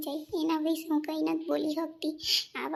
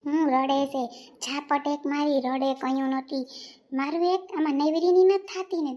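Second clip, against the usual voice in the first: upset outburst; 4 dB louder than usual. Acted. Wife bursts out upset.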